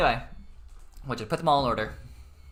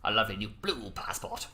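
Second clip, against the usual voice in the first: Boris impression; 3 semitones lower, 4 dB quieter than usual. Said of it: "It's my Boris impression".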